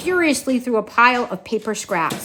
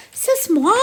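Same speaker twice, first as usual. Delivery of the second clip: put-on French accent; 9 semitones higher, 3 dB louder than usual. French mother mouse, indignant.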